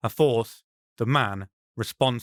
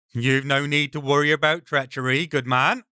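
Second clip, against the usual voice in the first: lightly voiced brigand, mock reassurance; a hint of a smug highwayman. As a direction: soothe them with a hidden sneer.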